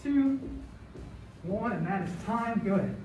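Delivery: winded after the exercise; out of breath. Real, not acted. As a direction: talk while catching breath. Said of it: "A little bit out of breath after that one".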